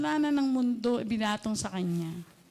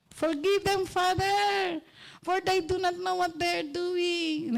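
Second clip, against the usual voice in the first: tender plea; 5 semitones higher, slower than usual. Acted. Quoting Jesus on the cross.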